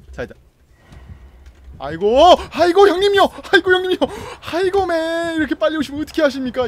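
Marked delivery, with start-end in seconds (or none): 1.8-6.7 high hammed-up begging to a boss; mock pleading. Player begging Freddy for mercy, hammed-up high pleading. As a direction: grovel theatrically to the big brother.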